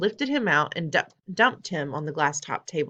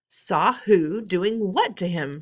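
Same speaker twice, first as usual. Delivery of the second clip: loud, slow and higher; shouted; 3 semitones higher, 5 dB louder, slower than usual. Acted. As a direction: demand it furiously. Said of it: "shouted Mister Jenkins".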